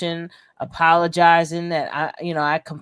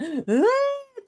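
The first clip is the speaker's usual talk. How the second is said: sobbing gasp. Retold or imitated. Miming a full-on sob.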